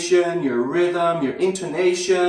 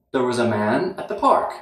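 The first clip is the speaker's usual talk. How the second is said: There was a man, brief pause, at the park; strong, weak, weak, strong rhythm with a short break after man; pause before at the park; 5 semitones lower than usual. Shown as a demonstration. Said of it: "Get the pause in there".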